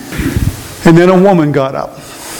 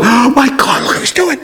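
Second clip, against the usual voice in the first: shocked crowd; 7 semitones higher than usual. Retold or imitated. Congregation shocked by pastor.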